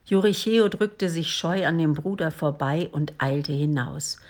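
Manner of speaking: ordinary delivery, nothing marked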